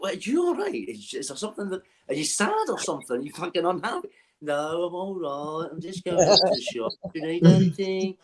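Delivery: imitating a Birmingham back-and-forth; mock Birmingham accent, swinging up and down. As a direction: put on a Birmingham cousin's accent. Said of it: "they're staying in Birmingham".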